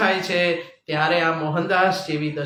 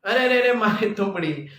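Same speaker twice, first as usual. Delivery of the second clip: understated mock wail over a loss; wailing lament. Mohandas laments his smashed gourd, mild imitated wail. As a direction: lament it in imitation, without real crying. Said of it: "મોહનદાસે બૂમ પાડી".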